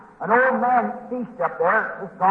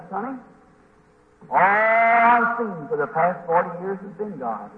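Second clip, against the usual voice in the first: slow, low, a touch of tearful awe; understated emotion, drawn-out words; mildly tearful old man; 3 semitones lower, slower than usual. Retold or imitated. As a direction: stretch it out like an old man moved to tears. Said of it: "come and crying".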